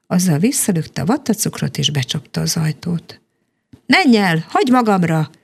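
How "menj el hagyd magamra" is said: put-on a dragon's half-raised yell at the girl; mild shout. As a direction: push her away with a light shout. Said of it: "kiabált a lányra".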